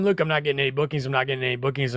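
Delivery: low, soft whiny host complaint; mock complaining host. Host grumbling to him about bookings, softly mopey. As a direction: mumble it like a moping host. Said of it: "I get people all the time".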